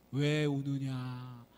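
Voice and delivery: very slow, drawn-out spirit voice; mountain god. Acted. Mountain god questioning Nolbu, very slow. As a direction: stretch every syllable like a lofty sage.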